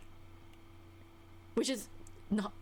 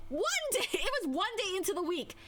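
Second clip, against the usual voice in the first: laughing; 8 semitones higher than usual. Real, not acted. Correcting herself, laughing.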